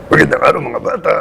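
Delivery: put-on high, punchy kids' TV voice; children's show character. Shown as a demonstration. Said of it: "the voice sounds like this".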